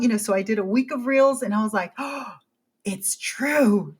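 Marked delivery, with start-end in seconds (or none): 1.9-4.0 breathy whispered realization after a gasp; awed whisper. Retold or imitated. Creator realizing reels get pushed, hushed awe. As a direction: whisper it like a discovered secret. Discovering reels really work.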